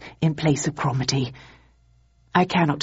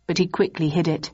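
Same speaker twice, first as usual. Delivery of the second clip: plain reading voice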